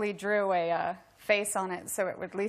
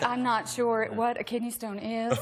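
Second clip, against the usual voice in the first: Southern belle accent, retold for laughs. Wife still in character at the hospital, Southern accent. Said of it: "asking all of these medical questions in a Southern accent".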